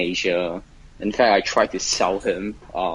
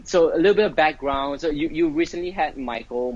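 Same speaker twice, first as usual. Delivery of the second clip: higher-pitched on-air voice; live voice; 7 semitones higher than usual. Real, not acted. Guest starting his background for the podcast, live voice. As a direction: switch on the live interview voice. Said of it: "put on my live voice".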